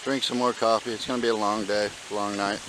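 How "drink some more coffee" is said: on a bumpy road. Real, not acted. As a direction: voice jolted by walking steps. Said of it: "sorry for the shaking".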